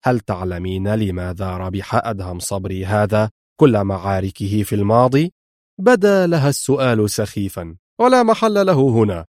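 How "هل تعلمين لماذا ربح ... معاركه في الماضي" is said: harsh tone. Acted. Mr X questioning Laura, low and harsh. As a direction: press her with a cold question. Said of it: "في لهجة قاسية".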